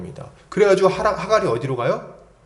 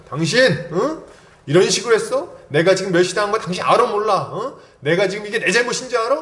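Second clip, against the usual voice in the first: higher, rapid-fire accusing questions; mock snapping tirade; 6 semitones higher than usual. Preacher acts out Sarah berating Abraham, snapping indignantly. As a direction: act out a wife laying into her husband. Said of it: "막, 막 쏘아붙입니다".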